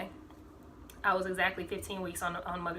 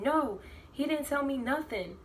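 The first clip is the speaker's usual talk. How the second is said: exasperated mom; 7 semitones higher than usual. Retold or imitated. His mom exasperated at son.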